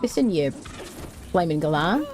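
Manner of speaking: mock Australian scolding, lightly done; half-hearted Aussie insult; Australian accent. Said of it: "Accent was pretty bloody good".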